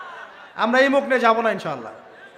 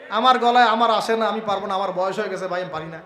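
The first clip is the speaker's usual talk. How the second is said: defeated whine; 4 semitones lower than usual. Retold or imitated. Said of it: "শয়তান এসে বুঝাবে".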